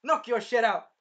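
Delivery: cocky fighter slamming the hit home; triumphant yell. Retold or imitated. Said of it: "the shield here is like".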